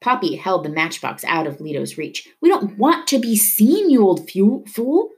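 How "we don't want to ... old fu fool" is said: high, heated yell; angry yell. A narrator's reading. Poppy to Leto over the tanker's thunder, yelling angrily. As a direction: yell the insult over engine noise. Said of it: "he yelled over the growing thunder".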